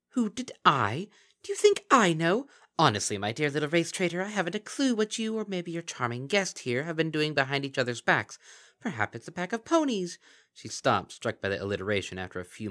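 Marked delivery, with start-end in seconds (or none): 0.1-10.2 high, loud, sly creature voice; mocking Kelpie. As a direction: purr false praise like a gleeful monster.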